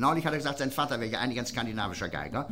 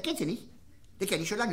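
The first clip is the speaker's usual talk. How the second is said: lightly voiced high, metallic Lower Rhine man; 9 semitones higher than usual. Regular at the pub bar, answering his friend in a high metallic voice. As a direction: pitch it high and tinny like a local. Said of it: "Die Niederrheiner können ja manchmal so ganz hoch und Metallen sprechen".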